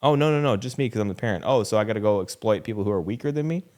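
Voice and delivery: put-on a kid poking holes in the parent's logic; mock incredulous child.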